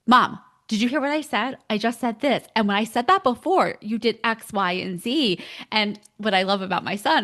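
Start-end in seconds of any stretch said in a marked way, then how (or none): 0.1-5.4 imitating her son. Son voiced demanding a reaction.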